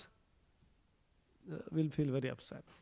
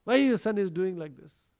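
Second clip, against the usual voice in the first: louder retold grumble; angry complaint; 6 dB louder than usual. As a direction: demand an answer in mild mock anger. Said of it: "they would get very angry and they would go complain".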